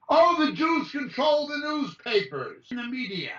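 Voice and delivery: breathy mocking whisper of a conspiracy claim. Mimicking conspiracy theorists in a mocking whisper. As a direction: hiss it like a gossiping crank.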